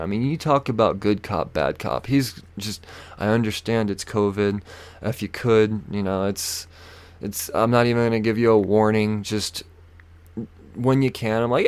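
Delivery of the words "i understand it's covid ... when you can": polite and nice. Retold or imitated. Good cop excusing expired tags, mild polite imitation. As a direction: let them off kindly and calmly. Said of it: "trying to be as polite and as nice as he can".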